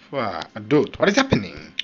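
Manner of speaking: loud burst of frustration; frustrated yell. Real, not acted. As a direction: shout it out in disbelief. Frustrated at the game.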